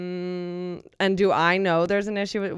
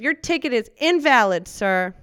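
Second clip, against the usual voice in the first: authoritative; 4 semitones higher, 5 dB louder than usual. Acted. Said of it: "You're authoritative".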